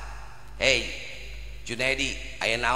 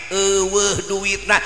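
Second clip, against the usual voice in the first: slow, drawn-out "Eueuh duitna" as a whine; mock lame excuse; 7 semitones higher, 6 dB louder, much slower than usual. Preacher mimicking the no-money excuse, slow and mocking. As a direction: drag "eueuh" out like a weak excuse. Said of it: "Jangan berkata itu".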